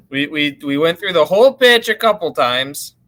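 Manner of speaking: thin sound through a laptop microphone; laptop mic. Real, not acted. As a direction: still on the built-in laptop mic. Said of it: "Sounds like your laptop mic to me".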